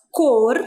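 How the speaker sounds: COR drawn out, sounding the final R; demonstrated pronunciation. Shown as a demonstration. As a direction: stretch cor to show where the R falls. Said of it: "vamos fazer a pronúncia". (cor pronunciado devagar, com o R final destacado)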